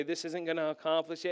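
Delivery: soft, low, gentle reproof; kind, loving. Retold or imitated. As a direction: correct lovingly, keeping it quiet. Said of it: "she would say it very kindly".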